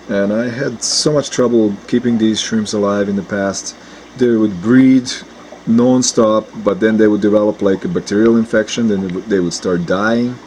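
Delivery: hoarse from a cold, sore throat. Real, not acted. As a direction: talk through a sore throat. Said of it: "I apologize for my voice. I have a sore throat".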